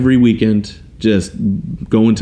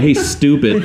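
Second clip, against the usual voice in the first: laughing mock tease; 5 semitones higher, slower than usual. Laughing while retelling Kelly's tease.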